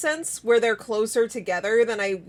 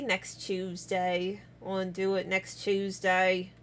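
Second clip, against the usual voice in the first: low, soft, slow repeat; hushed, lower and drawn out; musing; 4 semitones lower, 9 dB quieter, slower than usual. Real, not acted. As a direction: say it quietly to yourself.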